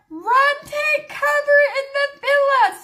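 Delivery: high, hollered warning; imitated urgent shout. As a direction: act out a husband shouting to take cover. Husband's shouted warning, acted.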